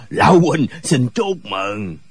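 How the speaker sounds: slow, low, gleeful character voice; drawn-out congratulations in a deep voice; amused congratulation. A narrator's reading. Comrade teasing the father, slow low amused congratulation. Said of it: "cười ha hả nói".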